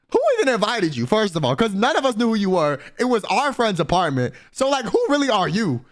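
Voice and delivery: who-do-you-think-you-are attitude; indignant challenge. Acted. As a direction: call out an uninvited guest. Acted confrontation of the uninvited guy.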